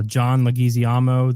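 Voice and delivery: over-careful foreign pronunciation of LEGUIZAMO; hyper-Spanish name. Real, not acted. Host listing co-stars, exotic mispronunciation of LEGUIZAMO. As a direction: say LEGUIZAMO as leh-GEE-zee-AH-mo. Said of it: "I really liked how you said that".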